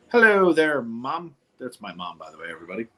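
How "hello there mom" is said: bright high hello; cheerful greeting. Real, not acted. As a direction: call out a happy hello. Greeting mom on video call.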